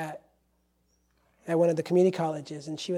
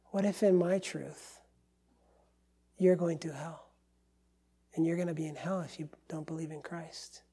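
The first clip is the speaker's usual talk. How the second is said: soft, gentle retold warning; 6 dB quieter than usual. Pastor gently warning a pagan witch about hell, very gentle. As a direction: say the hard thing softly, gently. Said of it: "I said that with that vo-, that tone of voice".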